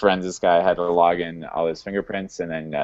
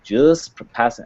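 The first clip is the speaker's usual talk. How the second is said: put-on Irish accent; 5 semitones higher than usual. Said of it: "I can't do an Irish accent".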